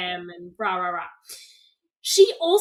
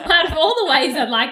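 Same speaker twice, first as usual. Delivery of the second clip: laughing; 5 semitones higher, 8 dB louder, faster than usual. Real, not acted. Laughing restart of the sentence.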